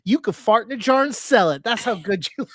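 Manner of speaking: gay voice. Retold or imitated. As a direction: put on a gay voice for an outrageous compliment. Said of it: "if you do a gay voice".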